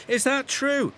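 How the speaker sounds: high, eager small-engine voice; high eager little digger. A narrator's reading. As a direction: squeak it out eagerly. Alfie voiced, eager question.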